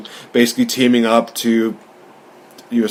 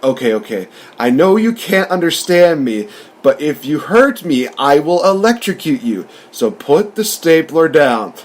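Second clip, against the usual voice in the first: a touch higher, slow, mock-threatening Pikachu; lightly voiced Pikachu; 4 semitones higher than usual. Retelling Pikachu's threat to Tim, lightly voiced. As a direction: warn him calmly but cutely. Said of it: "basically just says".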